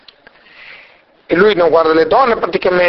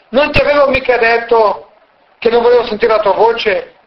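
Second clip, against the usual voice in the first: arrogant; 4 semitones higher than usual. Acted. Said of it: "con molta arroganza dice".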